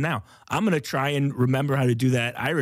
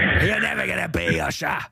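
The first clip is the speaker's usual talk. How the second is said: higher put-on heckler voice; different voice; 4 semitones higher than usual. Heckler mocking the usher, high put-on voice. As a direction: taunt him in a raised character voice. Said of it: "it's a different voice".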